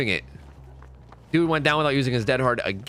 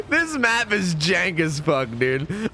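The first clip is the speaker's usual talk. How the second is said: laughing; 3 semitones higher, much slower than usual. Real, not acted. Laughs while complaining.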